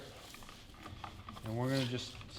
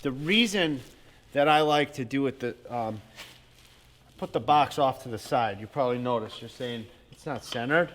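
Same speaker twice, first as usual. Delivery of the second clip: talking over hammer blows; while hammering. Real, not acted. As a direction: speak while nailing a box. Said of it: "talk to you while I nail this".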